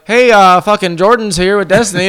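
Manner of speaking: hint of a Canadian brother; brother's mock Canadian accent. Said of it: "my brother's like".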